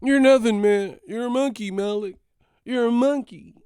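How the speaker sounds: high, loud shrieking mock rant; Remy shrieking insults at Malik. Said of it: "This motherfucker Remy".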